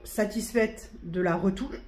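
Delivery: hiccups breaking the words; hiccuping. Real, not acted. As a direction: speak through a hiccup. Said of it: "Pardon, j'ai le hoquet".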